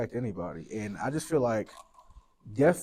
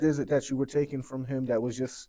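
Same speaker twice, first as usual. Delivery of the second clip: louder, higher, pleading rant; passionate rant; 3 semitones higher, 3 dB louder than usual. Real, not acted. Mourning friend rants to host about the community, louder and higher. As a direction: let the frustration pour out. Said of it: "and this is a little rant".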